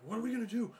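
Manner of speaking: high, loud frantic lunatic voice; panicky lunatic. Retold or imitated. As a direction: rant like a panicked madman. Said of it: "that side of me that becomes a lunatic".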